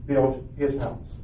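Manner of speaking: storybook reading to the congregation, voicing the pigs and wolf lightly; story narration. A narrator's reading. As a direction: read it like a bedtime tale for children. Reads children's story aloud.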